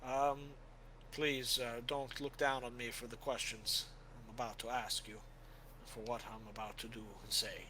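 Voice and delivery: a solemn knight asking forgiveness in advance; earnest warrior. Acted. Helwyn asking Father for penance, earnest and formal. GM voices Helwyn addressing priest.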